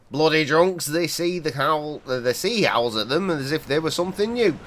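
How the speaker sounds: lightly voiced gruff old local; a hint of a wary old seaman; old fisherman. Player reading the old fisherman warning a stranger, lightly voiced.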